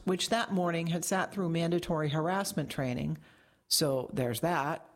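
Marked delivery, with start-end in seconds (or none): 3.7-4.9 slow, deadpan aside; flat, dry remark. Acted. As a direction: toss it off flatly, unimpressed. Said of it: "Metcalf said flatly".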